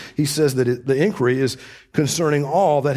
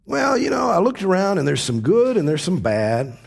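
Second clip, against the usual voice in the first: higher, offhand voice mocking a shrugging view; mock casual shrug; 6 semitones higher than usual. Preacher mocking the mild verdict Solomon never gave, offhand. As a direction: toss it off like a man who can't be bothered. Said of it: "he doesn't say".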